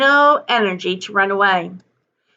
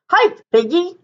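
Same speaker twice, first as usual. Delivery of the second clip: higher, cheerful shout to the pig; shouted call; 8 semitones higher than usual. Acted. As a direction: call her on like one of the team. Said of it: "shouted the man".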